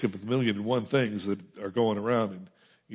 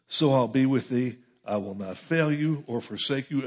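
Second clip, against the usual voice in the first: scripture reading; 3 semitones higher than usual. Acted. Reads God's charge to Joshua.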